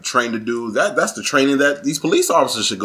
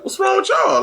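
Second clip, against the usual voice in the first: mock outrage. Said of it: "We be like".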